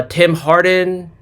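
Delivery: ordinary delivery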